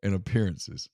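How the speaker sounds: slow, chuckling through the words; trying not to laugh while reading. Real, not acted. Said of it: "we can't say that without laughing".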